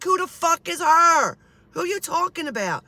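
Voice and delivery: high-pitched exasperated question; acted incredulous outburst. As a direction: demand to know, acting out total bafflement. Acting out her baffled reply to Dad.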